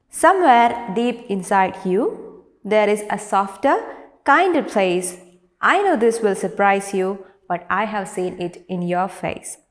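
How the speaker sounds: measured classroom poem reading; poem recitation. Acted. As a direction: recite it clearly, line by line. Reads the poem aloud.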